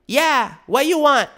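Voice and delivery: hammed-up annoyed woman on the phone; rude lady. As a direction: brush off the caller rudely.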